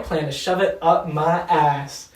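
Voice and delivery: mildly heated, punchy comeback; heated retort. Retold or imitated. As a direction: throw back a defiant retold retort. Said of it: "so heated".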